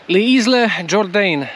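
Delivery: "Les Isles Jourdain" read slowly, guessing at the French sounds; unsure French reading. Real, not acted. Telling viewers the French town name, unsure guessing pronunciation. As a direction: spell out "Les Isles Jourdain" carefully, not sure how it goes. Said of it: "Oczywiście nie wiem, jak to się czyta".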